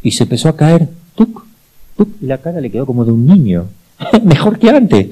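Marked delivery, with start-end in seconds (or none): 4.0-5.1 laughing through the words, high. Real, not acted. Priest tells students about the healed face, laughing. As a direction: chuckle it out in amazement.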